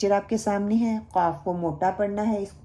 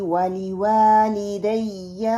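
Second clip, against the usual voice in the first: slow, drawn-out melodic dua recitation; slow Quranic recitation; much slower than usual. Shown as a demonstration. Teacher reciting a dua for students to repeat. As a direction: recite each word long and measured. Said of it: "آگے ہے".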